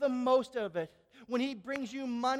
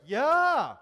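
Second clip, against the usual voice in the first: crowd yell; 3 semitones higher, 11 dB louder than usual. Retold or imitated. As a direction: shout it back like a crowd. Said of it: "people are like".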